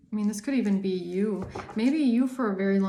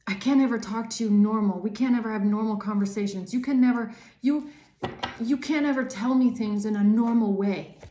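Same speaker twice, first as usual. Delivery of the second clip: mildly heated, louder complaint; mock accusing; 4 dB louder than usual. Gaslighter turning on you, acted accusation. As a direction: imitate someone turning the blame around. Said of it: "turn around and always say".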